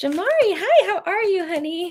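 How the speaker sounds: put-on very high-pitched little old lady voice. Greeting someone during a card reading: old granny voice. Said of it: "I sound like an old granny".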